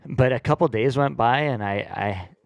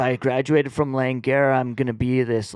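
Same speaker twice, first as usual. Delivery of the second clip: higher laid-back stoner dude; lightly imitating a stoner; 4 semitones higher, 3 dB louder than usual. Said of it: "I love the stoner voice".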